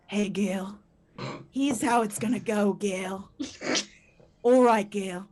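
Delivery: mock Australian accent for a seductive ASMR recording; imitated Australian man. Australian man describing to his listener what he'll do, mock-seductive Australian accent. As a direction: put on an Australian lover's accent. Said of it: "It was an Australian man".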